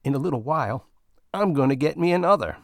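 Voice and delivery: Bill boasting about the best Zolark of his life; gleeful boast. Acted. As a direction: brag like a satisfied customer.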